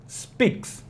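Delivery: speaks, the ks hissed like a cymbal; speaks with crisp ks. Shown as a demonstration. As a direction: finish speaks with a soft ks. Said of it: "Então, speaks".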